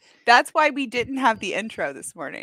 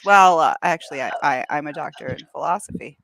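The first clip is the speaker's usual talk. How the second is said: smug philosopher; 6 semitones lower than usual. Acted. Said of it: "And he says".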